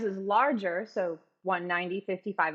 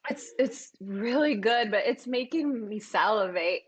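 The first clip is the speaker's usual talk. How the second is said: burned tongue. Real, not acted. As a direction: mouth burning from hot sauce. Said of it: "My tongue is on fire right now".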